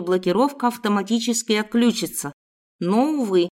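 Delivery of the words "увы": ordinary delivery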